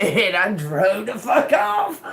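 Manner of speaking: drawn-out, bursting into laughter; slow it down and laugh through the punchline; real gleeful laughter in the words; laughing triumph. Real, not acted. Laughing at own getaway.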